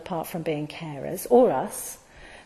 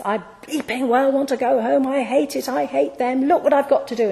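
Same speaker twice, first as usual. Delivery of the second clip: mock angry, higher and pitched up; imitating furious rant; 4 semitones higher than usual. Mother ranting to her friend on the phone, mock angry. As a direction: rant like a fed-up mum on the phone. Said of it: "She was furious".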